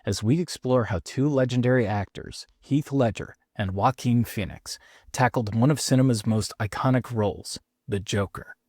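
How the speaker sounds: measured, scripted show-opener voice; podcast intro read. Acted. Host teasing this week's Joker episode to listeners, announcer read. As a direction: announce the episode like a trailer, with spaced-out phrases.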